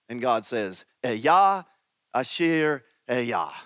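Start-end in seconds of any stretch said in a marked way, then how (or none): 1.0-3.5 Ehyeh said as eh-yah, Asher as ah-sher; Hebrew Ehyeh Asher Ehyeh. Shown as a demonstration. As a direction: sound out Ehyeh Asher Ehyeh slowly. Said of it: "can you hear in that the divine name".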